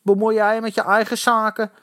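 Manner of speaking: pushy, high-pitched bullying; threatening. A narrator's reading. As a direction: warn him off aggressively. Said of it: "dreigde een potig uitziende kerel".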